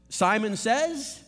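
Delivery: commanding Jesus. Acted. Preacher voicing Jesus commanding.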